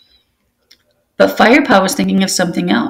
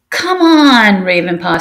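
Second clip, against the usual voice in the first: urging call; 3 semitones higher, slower than usual. Acted. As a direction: egg him on. Apprentice urges Ravenpaw.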